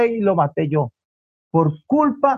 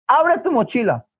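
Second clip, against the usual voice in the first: acted motherly command, raised pitch; stern order; 4 semitones higher than usual. Mother orders son to show his bag, acted stern order. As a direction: give a firm, controlled order.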